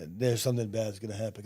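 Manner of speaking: restrained, even delivery of a threat; calm warning. Retold or imitated. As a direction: finish the warning without raising your voice. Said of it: "very calmly said".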